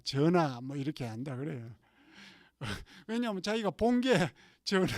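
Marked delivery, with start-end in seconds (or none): 0.0-0.6 전하 called out a bit louder, like a drama courtier; hammed-up bow to the king in prayer; mock courtly address. Pastor mimics a drama-watcher praying, mock courtly call. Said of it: "기도 딱 하면".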